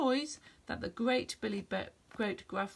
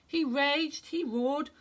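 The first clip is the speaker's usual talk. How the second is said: louder, higher narration of the raging troll; dramatic narration; 4 semitones higher, 4 dB louder, slower than usual. A narrator's reading. Narrator tells the troll raging and roaring, louder and higher. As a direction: raise the voice with the troll's fury.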